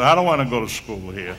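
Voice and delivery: chuckling through a retold gripe; half-laughing, mock-miserable; laughing complaint. Retold complaint after practice.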